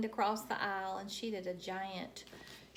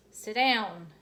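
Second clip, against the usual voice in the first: firm teacher; 9 dB louder than usual. Acted. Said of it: "he said again".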